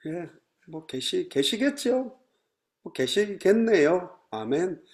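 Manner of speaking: slow, soft, unconvinced reply; mock lukewarm congregation; half-hearted agreement. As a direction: mumble a dutiful amen without joy. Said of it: "안 기쁜 거예요".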